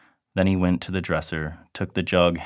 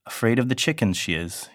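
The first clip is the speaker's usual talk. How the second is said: mocking; 5 semitones higher than usual. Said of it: "he said mockingly".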